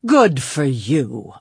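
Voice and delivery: slow, hearty cheer. A narrator's reading. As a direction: cheer them on warmly. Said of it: "I cheered".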